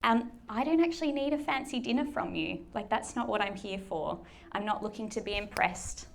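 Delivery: a touch of softness, as if consoling a worn-out friend; tender reassurance. Retold or imitated. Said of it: "missing the heart of what Jesus is saying".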